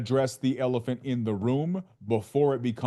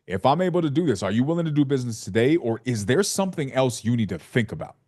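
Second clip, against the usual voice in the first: firm and emphatic, every word meant; emphatic, with the chest. Shown as a demonstration. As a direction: say it with your chest, no hedging. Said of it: "saying that part with my chest".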